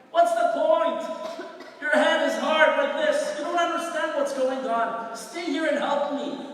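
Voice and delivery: lightly acted exasperated wife; nagging wife. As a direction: open at full scold, then ease off. Wife nags her studying husband.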